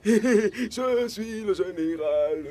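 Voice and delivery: laughing. Acted. Se vante en riant.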